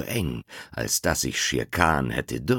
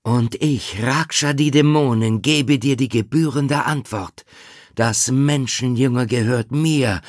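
loud, high, fierce she-wolf; Raksha; 8 semitones higher, 6 dB louder than usual. Acted. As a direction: spit threats, fierce and protective. Mother wolf threatens the tiger. (laute, wilde Wölfin)

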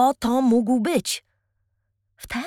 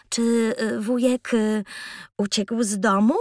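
cautious, hesitant question. Acted. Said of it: "zapytał ostrożnie".

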